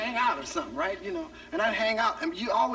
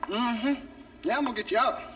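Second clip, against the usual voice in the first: father's attitude. Retold or imitated. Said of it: "he had an attitude like".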